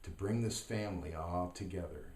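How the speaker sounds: measured reading, pausing between short lines; poem recitation. Acted.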